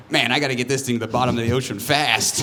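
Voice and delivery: quick pirate with a time machine; fast mock pirate. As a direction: rattle it off as a hurried pirate. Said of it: "a pirate that found a time machine".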